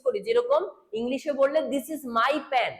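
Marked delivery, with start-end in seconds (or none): 1.7-2.7 slow example. Shown as a demonstration. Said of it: "teacher giving example sentence".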